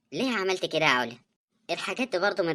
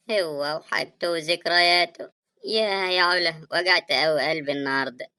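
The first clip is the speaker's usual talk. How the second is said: crying. Acted. Sister mourning her brother and blaming his widow, crying. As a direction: wail in grief and wounded reproach. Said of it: "مالك يا سماح بتعيطي ليه".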